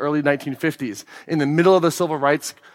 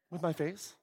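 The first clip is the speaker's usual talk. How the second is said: mock sulky reply; 17 dB quieter than usual. Acted couple quarrel, her reply.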